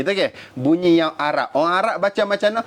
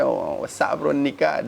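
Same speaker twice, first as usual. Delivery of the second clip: a lightly done Black American "what's up, bro"; imitating Black American slang; 2 semitones lower, 3 dB quieter than usual. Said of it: "kalau yang negro dia".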